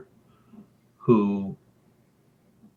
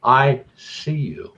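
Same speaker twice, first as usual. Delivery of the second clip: put-on higher, slow little girl voice; little girl doll voice; 4 semitones higher, much slower than usual. Talking doll speaks to the storyteller, slow little girl voice. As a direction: draw it out like a creepy girl doll. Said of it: "but in the little girl's voice now".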